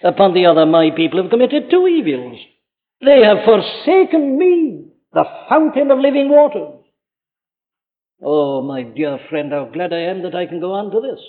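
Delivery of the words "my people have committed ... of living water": solemn quoted lament. Acted. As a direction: draw out each word as God grieving. God's words quoted in sermon.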